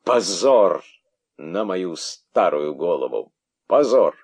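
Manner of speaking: theatrical hysterical outburst; practiced hysterics. Acted. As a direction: throw a rehearsed tantrum. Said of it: "в хорошо отработанной истерике".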